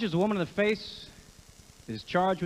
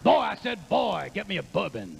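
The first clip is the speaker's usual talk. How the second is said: Pacino bark turning into a cartoon rooster drawl; Pacino as Foghorn Leghorn. Comic mocking Pacino's Oscar role, cartoon rooster voice. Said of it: "an impression of Foghorn Leghorn".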